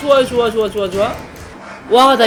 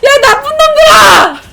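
full-throated furious yells, much higher and louder; yelling at enemies; 11 semitones higher, 9 dB louder, slower than usual. Real, not acted. Streamer screaming at the game's bad guys. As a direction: scream at the monsters ganging up on you.

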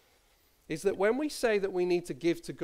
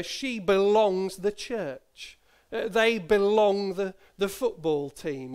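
slow, louder, stretching BELONGS; granny's quaint phrase; 2 semitones higher, 5 dB louder, slower than usual. Retold or imitated. Grandchild giving more examples of granny's phrase, slow and emphatic. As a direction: linger on BELONGS, skipping straight to "the". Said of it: "she used to have this little phrase".

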